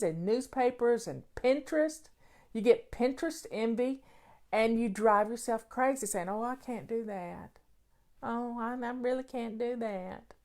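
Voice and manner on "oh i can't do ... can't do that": mock whine, a touch softer; whiny voice. Imitating someone who gets Pinterest envy, mildly whiny. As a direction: whine it like a self-pitying mom. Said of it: "That's a whiny voice".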